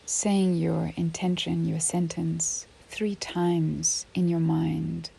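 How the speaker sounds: unhurried yoga nidra guidance with long pauses; measured, spacious relaxation-teacher delivery; guided meditation. Real, not acted. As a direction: guide a listener gently into rest, leaving space between phrases.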